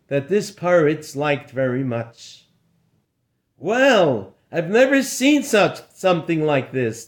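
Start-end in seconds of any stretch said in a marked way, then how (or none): 3.6-7.1 amazed. Acted. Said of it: "they all called out".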